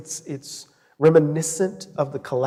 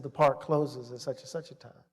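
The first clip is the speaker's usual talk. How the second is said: retold officer's warning, low-key and softer; quiet warning; 3 semitones lower, 6 dB quieter than usual. Officer to student, hand on his weapon, quiet retold warning. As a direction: lean in and repeat the rule quietly.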